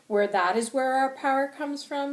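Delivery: high, loud, indignant challenge; angry, passionate. Acted. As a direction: throw it out like an accusation. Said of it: "I'm very angry and I'm very passionate".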